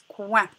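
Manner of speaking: "coin" slowly, c gliding into oin; syllable demonstration. Shown as a demonstration. Teacher blending C with oin for pupils, "coin" said slowly and distinctly. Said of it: "ça se prononce".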